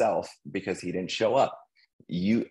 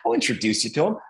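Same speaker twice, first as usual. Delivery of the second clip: higher, breathy easygoing yes; imitating buddy; 4 semitones higher than usual. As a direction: breeze through the promise like the pal. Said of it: "that's how he talks".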